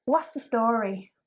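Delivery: drawn-out casual greeting; slow friendly greeting. Shown as a demonstration. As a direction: say it slowly like a hello. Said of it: "Just like a greeting".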